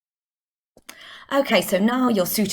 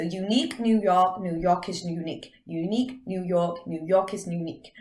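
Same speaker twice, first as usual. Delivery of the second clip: lightly put-on American accent; tongue twister in an American accent. Shown as a demonstration. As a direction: say it American, New York style. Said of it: "do it in an American accent".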